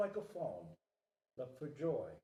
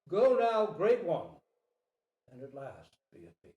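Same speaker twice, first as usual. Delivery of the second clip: a proud king declaring, loud and grand; king's solemn speech; 6 dB louder than usual. Acted. King decrees freedom to the deer, loud and grand. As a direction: voice of a king releasing the animals.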